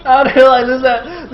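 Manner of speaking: loud, high imitation of an outraged loser; mock incredulous rage, drawn out; pissed-off player. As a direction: act out the furious player. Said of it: "Effort is so pissed!".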